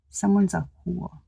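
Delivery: a hint of eerie spirit voice; spirit guide voice. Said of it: "they like to say it like that".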